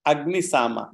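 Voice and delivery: measured chanting of a Vedic line; slow mantra recitation. Shown as a demonstration. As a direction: recite the Sanskrit slowly, word by word. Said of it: "That's what the mantra read".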